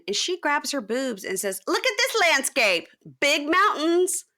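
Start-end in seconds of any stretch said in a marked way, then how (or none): 1.7-4.2 high, loud mocking impression of her; hammed-up brag about her body, pitched way up; mock sultry boast. Mocking her, grabbing her boobs.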